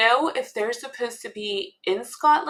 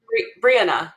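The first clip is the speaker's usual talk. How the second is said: Brianna stressed on BRI, falling away after; Brianna with a weak, unstressed middle; accent on first syllable; 4 dB louder than usual. Shown as a demonstration. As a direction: try out BREE-anna, hitting the opening syllable. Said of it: "The accent on the first syllable".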